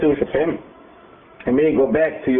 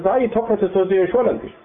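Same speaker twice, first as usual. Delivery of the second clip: sharply higher, offended exclamation; indignant protest; 6 semitones higher than usual. Acted. Teacher protesting the tribes' tone toward the new leader, high and offended. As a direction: protest that he is the chosen one.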